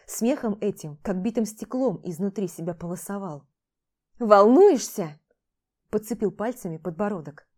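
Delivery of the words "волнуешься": loud, slow sneering echo; mocking. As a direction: throw her word back at her. Max mocks her worry. (громко, медленно, с издёвкой)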